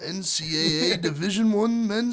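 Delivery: slow, measured sponsor read; sports announcer. Acted. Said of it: "You sound like the guy from E S P N".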